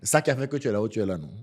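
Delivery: quoting his late father with a hint of African accent; lightly put-on African accent, quick and fond. Son quoting his late father's words, light African accent. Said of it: "Avec l'accent africain".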